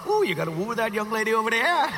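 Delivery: a hint of an old grandpa; lightly voiced old man urging romance. Grandson mimics his grandpa giving dating advice, lightly. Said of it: "If you're like my grandpa".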